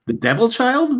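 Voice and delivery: high incredulous question; sarcastic surprise; mock disbelief. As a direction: act shocked at the praise. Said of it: "And I go".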